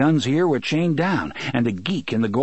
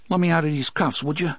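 humble plea; 5 semitones higher than usual. A narrator's reading. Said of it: "Fat Johnny asked in a humble voice".

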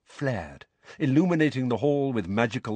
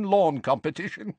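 higher witch voice on "Lawn Competition"; "Lawn Competition" said bright and high; high, voiced as the witch; 8 semitones higher than usual. Witch bragging about the Dursleys, high. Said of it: "said the violet-haired woman".

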